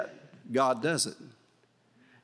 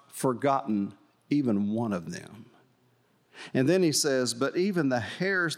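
scripture reading. Acted. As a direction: read the Bible passage deliberately. Reads scripture aloud.

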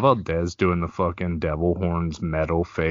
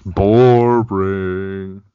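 teasing; 8 dB louder than usual. Real, not acted. Teasing a dull topic.

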